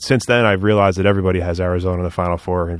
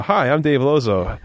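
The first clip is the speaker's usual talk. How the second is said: lightly hammed-up TV pitchman, slower; infomercial host; 3 semitones higher, slower than usual. Host opens his own infomercial, mild pitchman voice. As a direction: greet the viewers like a late-night ad. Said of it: "I feel like I'm on, like, an infomercial".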